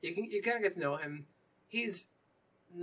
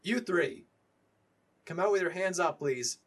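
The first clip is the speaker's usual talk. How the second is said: raised voice calling from outside; loud, slightly higher police command; kinda yelling; 4 semitones higher, 6 dB louder than usual. Acted. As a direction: order them out with a moderate yell. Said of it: "a voice outside kinda yells".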